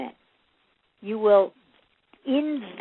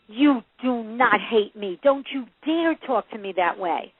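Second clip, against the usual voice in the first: scolding parent. Acted. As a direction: act out a parent firmly laying down the law. Acted scolding parent reply.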